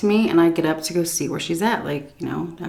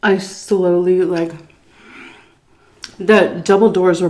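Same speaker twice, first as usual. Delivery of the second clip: whisper; 3 dB louder than usual. Real, not acted. Creeping toward the bedroom.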